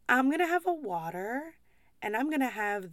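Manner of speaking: mock Irish lilt with swooping pitch; hammed-up fake Irish accent of a pub customer; bad Irish accent. Obnoxious customer ordering at an Irish pub, bad fake Irish accent. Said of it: "I can't even do a fucking Irish accent".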